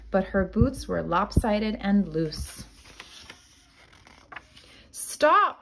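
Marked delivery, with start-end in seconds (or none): 4.9-5.6 high, short mock shout; wolf yelling. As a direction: call out stop. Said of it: "yelled the wolf".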